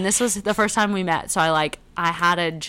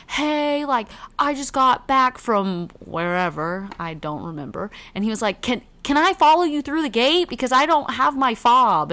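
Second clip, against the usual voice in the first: higher, casual asking voice; imitating the neighbor; 5 semitones higher, 4 dB louder than usual. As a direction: ask a favor offhandedly. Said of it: "he's like".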